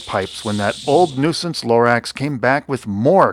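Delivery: measured read-aloud storytelling; storyteller's delivery; story narration. A narrator's reading. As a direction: tell it like a rhyming picture book.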